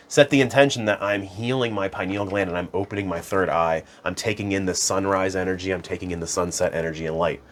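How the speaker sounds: affirmation voice. Shown as a demonstration.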